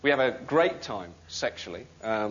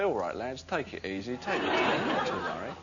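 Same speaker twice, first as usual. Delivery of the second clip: softer, easy soothing tone, a hint of darts man; calming bloke; 4 dB quieter than usual. Darts man calming soldiers in Bosnia, softly soothing. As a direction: talk the lads down gently, lightly voiced. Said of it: "such a calming presence".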